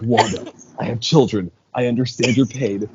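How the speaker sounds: understated impression of a film character; retold movie dialogue. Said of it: "She was just like".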